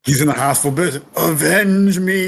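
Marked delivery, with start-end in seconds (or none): 1.2-2.3 overacted death scene. Quoting dying dad scene.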